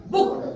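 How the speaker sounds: बुक with a quick short 'u'; short vowel, quick. Shown as a demonstration. Teacher says it will be read quickly, short बुक. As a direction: read बुक off fast, vowel not drawn out. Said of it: "जल्दी पढ़ा जाएगा".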